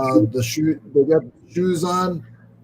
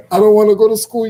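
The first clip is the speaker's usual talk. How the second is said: louder mock whine of a reluctant child; imitated whining; 2 semitones higher, 7 dB louder, faster than usual. Acting out a child refusing to go to school, mock whining. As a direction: whine it loudly, imitating a kid. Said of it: "just been him whining, saying".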